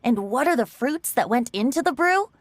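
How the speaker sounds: reciting a little rhyme to friends; poem recitation. Shown as a demonstration. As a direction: recite it like a bard's rhyme, with lilting rhythm. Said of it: "Shall I recite it for you?".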